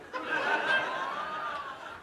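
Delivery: breathless high-pitched cackle; high wheezing laugh. Real, not acted. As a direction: laugh until the voice squeaks. Laughing at own story.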